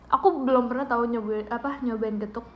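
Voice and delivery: drowsy, just woke from a nap; sleepy, half-awake mumble. Real, not acted. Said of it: "suara ngantuk aku kedengeran nggak?".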